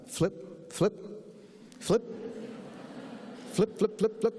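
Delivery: quick, high little "flip" sounds; short spoken page-turns with gaps, then a run; imitated page flipping. Bored reader skipping the research, imitated page flipping.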